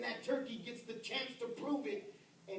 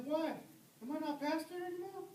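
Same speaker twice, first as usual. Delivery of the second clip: indignant question; 9 semitones higher, faster than usual. Retold or imitated. Retold protest to his boss.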